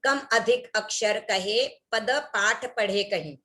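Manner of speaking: slow careful recitation of "कम अधिक अक्षर कहे पद पाठ पढ़े कहीं" with "हीन" left out; slow, deliberate misreading of the verse; dropped syllable demo. Shown as a demonstration. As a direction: read the line slowly, skipping "हीन". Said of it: "अगर इस तरह से बोल दे".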